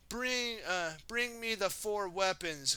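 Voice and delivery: high, commanding villain order; demanding villain. Acted. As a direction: demand it like a dark lord. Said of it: "Garmadon demanded".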